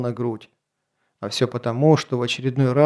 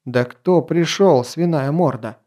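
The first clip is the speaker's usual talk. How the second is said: barking; slower than usual. Acted. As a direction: snap it out with a splitting head. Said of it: "рявкнул граф".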